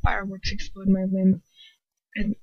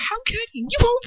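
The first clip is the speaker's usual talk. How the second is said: high, accusing shout; 11 semitones higher than usual. A narrator's reading. Girl shouting at Lucius for erasing her memory. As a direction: hurl it at him. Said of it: "I shout".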